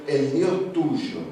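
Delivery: "El Dios tuyo" stretched out very slowly, each word savoured; slow, reverent. Acted. King speaks to Daniel.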